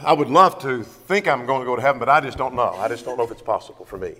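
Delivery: mildly resigned self-doubt, acted; doubting Christian. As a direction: voice a believer who isn't sure, sinking away. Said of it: "There are Christians who talk about".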